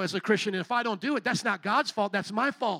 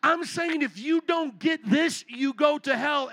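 higher, disbelieving stop-right-there; can't believe they're walking off; incredulous inner voice, pitched up; 5 semitones higher, slower than usual. Retold or imitated. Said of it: "And I'm like thinking".

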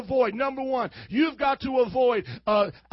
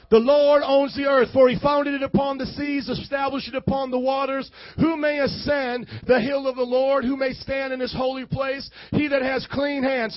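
booming scripture reading; preaching; 3 dB louder than usual. Acted. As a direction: preach it loud to the church. Preaching scripture at full force.

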